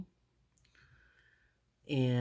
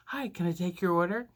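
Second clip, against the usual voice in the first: hyper waitress; 4 semitones higher, faster than usual. Retold or imitated. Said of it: "she's all hyper and stuff".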